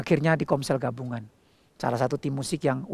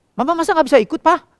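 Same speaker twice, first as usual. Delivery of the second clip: put-on pleading little girl; 11 semitones higher, 7 dB louder, faster than usual. Daughter pleading for mama.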